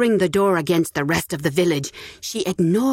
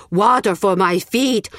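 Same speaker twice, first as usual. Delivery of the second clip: slow, louder begging croak; croaking beggar, pleading harder; 3 semitones higher, 4 dB louder than usual. Acted. Beggar calling again to the villagers, pleading croak. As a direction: beg more urgently the second time. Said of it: "he croaked".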